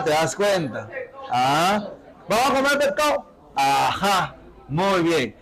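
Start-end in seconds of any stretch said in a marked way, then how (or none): 2.3-3.3 higher riverside Spanish, consonants dropped; riverside accent. Acted. Teacher imitating locals off to eat fish, higher riverside accent. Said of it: "hablan muy rápido ellos".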